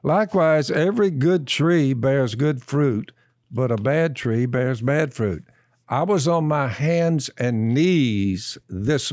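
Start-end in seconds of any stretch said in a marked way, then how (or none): 0.0-5.4 slow, measured Bible reading; a preacher reading the verse to the room; scripture reading. Acted. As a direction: read it out slowly, weighing each word. Reads the scripture aloud.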